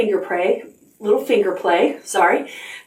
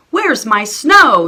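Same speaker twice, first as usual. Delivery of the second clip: dismay; 4 semitones higher, 6 dB louder, much slower than usual. Acted. Sophie finds no snow.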